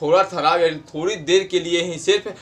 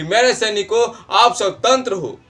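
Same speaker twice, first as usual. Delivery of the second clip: Jhansi Rani rallying; 3 semitones higher, 4 dB louder than usual. Acted. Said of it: "Jhansi रानी कहती थी अपने सैनिकों को हौसला बढ़ाने के लिए".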